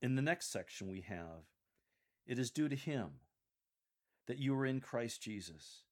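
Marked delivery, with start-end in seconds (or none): 2.2-5.8 measured scripture reading with pauses between phrases; serious. Shown as a demonstration. Coach models Paul's next section for lectors, serious. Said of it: "Continue a serious tone for this segment".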